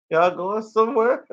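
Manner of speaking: confused dinosaur. Acted. Voicing the confused dinosaur being left behind, comic forlorn call. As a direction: timidly call after them, high-pitched. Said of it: "He was looking like".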